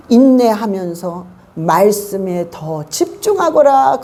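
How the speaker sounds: slow, calm words of God; slow gentle divine voice. Acted. 목사가 성도에게 하나님의 말씀을 전하며, 느리고 차분하게. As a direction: speak slowly like a patient God.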